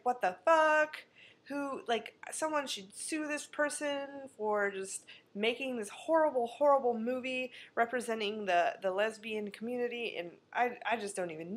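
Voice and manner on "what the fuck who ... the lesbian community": outraged disbelief. Retold or imitated. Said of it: "And I was like".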